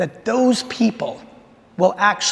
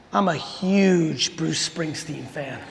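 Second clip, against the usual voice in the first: laughing through the punchline; 2 semitones lower, much slower than usual. Retold or imitated. Punchline of the letter.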